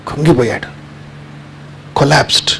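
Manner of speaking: hushed whisper. Acted. Storyteller telling how the doctor collapsed, whispered. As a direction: breathe it out in a whisper.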